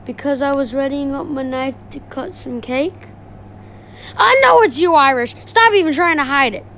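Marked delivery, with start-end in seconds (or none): 4.2-6.6 loud accusation. Acted. Accusing Irish loudly.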